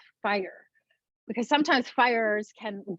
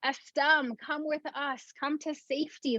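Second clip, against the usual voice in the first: calling out; 7 semitones higher than usual. Acted. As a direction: call up urgently to the hummingbird. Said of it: "he calls out to the hummingbird".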